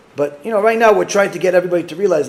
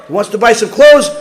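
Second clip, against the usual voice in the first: ordinary talk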